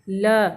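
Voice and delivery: "ल" as a lone letter sound; isolated phonics sound "ल" for learners. Shown as a demonstration. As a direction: say "ल" by itself with a short schwa. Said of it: "ल पे ए की मात्रा ले".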